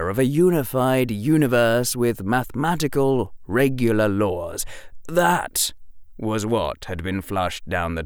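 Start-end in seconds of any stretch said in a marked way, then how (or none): none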